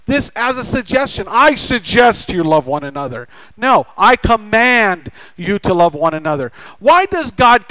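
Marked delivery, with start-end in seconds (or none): 1.3-3.3 mild suggestion. Shown as a demonstration. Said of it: "not suggests us to love". 4.0-6.5 commanding. Shown as a demonstration. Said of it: "God commands us".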